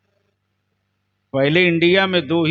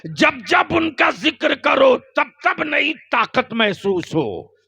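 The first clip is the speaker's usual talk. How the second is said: slow fiery preaching; 9 semitones higher, slower than usual. Acted. Preaching at full force.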